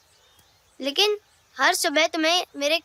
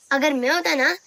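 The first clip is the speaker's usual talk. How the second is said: ordinary talk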